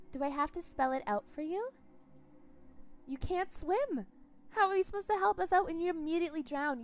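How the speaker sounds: high, loud gloating taunts; gleeful cannibal captor. Acted. Captor gloating to Gregor about eating his limbs, high and gleeful. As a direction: relish his horror.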